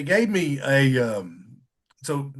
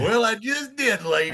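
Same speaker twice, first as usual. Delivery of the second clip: retold defiant comeback; 8 semitones higher than usual. Retold comeback to test staff.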